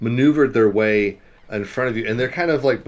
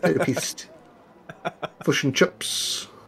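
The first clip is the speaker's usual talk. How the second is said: put-on Kiwi accent, higher and quieter; 4 semitones higher, 5 dB quieter than usual. Repeating the word therapist in character: new zealand accent. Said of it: "my New Zealand accent".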